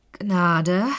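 scornful echo. Acted. Killer repeats the word mockingly.

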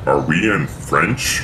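slow, quiet doubtful repeat; puzzled reconsidering. Real, not acted. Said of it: "Are, wait".

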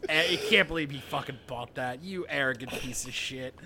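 Vegeta voice. Acted. Voicing Vegeta scene.

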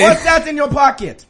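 suspicious mock-Italian shopkeeper; attempted Italian accent. Shop owner questions the thief, mock-Italian accent. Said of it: "I'm gonna be an Italian shop owner".

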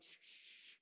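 hushed whispered shh; shushing. Retold or imitated. Mom and dad hush their snickering son, whispered. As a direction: hiss quietly to silence a child. Parents hush giggling boy.

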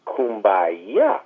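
Kumbaya drawn out slowly, ending on a stressed YA; folk-revival Kumbaya. Shown as a demonstration. Author telling how folk singers changed it, drawn-out Kumbaya. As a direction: stretch out Kumbaya and land on YA. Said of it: "they started singing Kumbaya".

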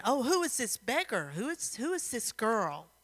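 acted jeering questions; lightly scornful, swooping pitch; mocking. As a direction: poke fun with exaggerated question tunes. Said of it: "they started laughing at her".

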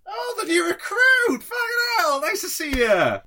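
very high, loud rowdy pirates; excited pirate greeting. Acted. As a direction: shout a boozy welcome. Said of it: "three of them are like".

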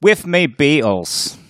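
exaggerated mock British accent, high and loud. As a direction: lay on the cartoon Brit thick. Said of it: "I butchered your accent".

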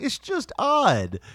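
slow, drawn-out. Retold or imitated. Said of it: "I'm like".

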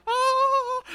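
high, loud, drawn-out celebratory cry; Oprah. Retold or imitated. Preacher likens the ark's arrival to a TV moment, yelling. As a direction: belt out a talk-show host's big reveal yell. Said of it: "it's that Oprah".

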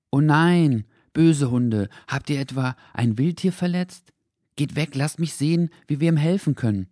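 put-on high, loud boy's voice full of alarm; a child rushing in, scolding and worried; excited boy. A narrator's reading. Henry scolding the dogs over a hurt animal, alarmed.

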